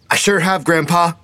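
put-on high, loud, eager little boy; a kid proudly yelling to his grandpa; happy shout. A narrator's reading. Petey bragging to his grandpa, happy high shout. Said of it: "Petey shouted happily".

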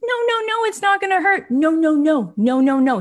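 very high cooing mock mom voice; hammed-up sweet-talking mother; soothing other mom. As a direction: coo at a crying child in the waiting room. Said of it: "the other moms would say to their kids".

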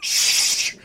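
sharp whispered shh; shushing. Retold or imitated. Elder shushing Rick during prayer, whispered. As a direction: hush him hard. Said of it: "He goes".

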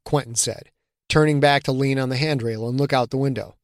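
plain reading voice

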